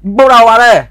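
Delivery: excited exclamation. Real, not acted. Exclaiming over a wheelie crash.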